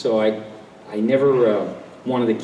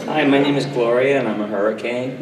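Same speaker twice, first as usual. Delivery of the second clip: weather voice. Retold or imitated. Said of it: "I can do weather".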